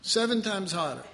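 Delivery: hammed-up furious king; angry king. King orders his servants to heat the furnace, mock furious. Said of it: "and he says".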